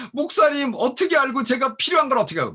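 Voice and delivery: high, loud, excited exclamation, imitating a thrilled friend; mock amazed gratitude. Ethiopian friend thanks pastor for money just received, excitedly imitated amazement.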